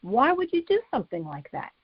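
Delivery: son's upset thoughts. Retold or imitated. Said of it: "I would be thinking".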